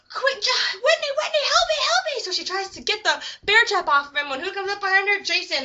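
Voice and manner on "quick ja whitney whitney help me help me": high-pitched mock scream; hammed-up panicked cries; screaming for help. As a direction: plead frantically, acted. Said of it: "she hears the other guy screaming".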